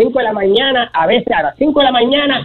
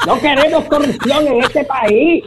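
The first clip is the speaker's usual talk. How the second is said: laughing; 5 semitones higher, slower than usual. Real, not acted. Comic insult list ending.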